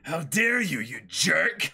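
sharp, offended outburst; indignant shout. Acted. Nami snaps at the flirting admiral, outraged. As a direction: tell the creep off.

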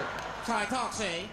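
lightly put-on gangster voice; mock gangster comeback; forties bad guy. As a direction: insist like an old-movie mobster. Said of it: "that's how bad guys used to talk".

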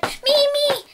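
high loud volunteering; desperate to be picked; bouncing with eagerness; eager shout. Acted.

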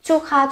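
teacher re-modelling Chu kha for students; repeated demo. Shown as a demonstration. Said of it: "người ta sẽ có từ chu kha".

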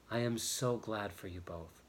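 soft, tender congratulations; warm. A narrator's reading. Mercy congratulates the couple, speaking warmly and softly. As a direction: say it softly and kindly. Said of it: "she said warmly".

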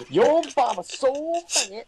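very high, loud joke holler; whooping mock heckle; mock shouting. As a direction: yell it out as a gag. Joking shout on the name.

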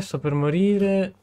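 a slow theatrical whimper; drawn-out mock whine. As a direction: stretch morire out, hammed-up starving. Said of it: "c'ho fame".

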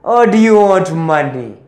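slow low sinister ultimatum; menacing offer. Pretend. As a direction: drop it slow and threatening. Menacing offer to victim's family.

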